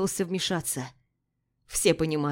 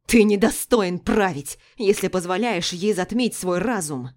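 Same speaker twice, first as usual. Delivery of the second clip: angry shout; 5 dB louder than usual. Acted. Furious brother keeps shouting.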